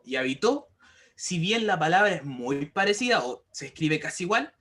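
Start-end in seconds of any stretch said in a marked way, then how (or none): 0.2-0.7 "habitó" stressed on the final syllable, ha-bi-TÓ; teacher's demo of "habitó", stressed ha-bi-TÓ; stress on last syllable. Shown as a demonstration. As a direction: land on the "tó" of "habitó". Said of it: "dependiendo dónde nosotros estamos acentuando esa palabra".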